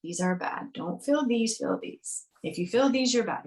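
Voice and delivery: preachy mock lecture; sing-song scolding of feelings; mocking rules. Mocking how humans lecture themselves about emotions, preachy and scolding. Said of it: "dumb enough to say".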